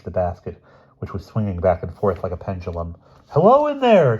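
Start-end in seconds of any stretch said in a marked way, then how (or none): 3.3-4.2 loud, high call upward; shout. A narrator's reading. Bruno shouting up to the stranded boy, loud high call. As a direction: call out to the basket up in the tree. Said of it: "shouted Bruno".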